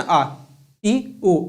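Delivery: brief आ, ई, ऊ, taking hardly any time; short vowels. Shown as a demonstration. Teacher showing students quick vowels, short आ, ई, ऊ. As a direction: cut आ, ई, ऊ short, one by one. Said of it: "बिल्कुल कम time लगा ना".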